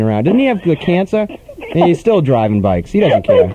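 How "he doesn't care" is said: squeaky high voice. Pretend. Voicing carefree cyclist.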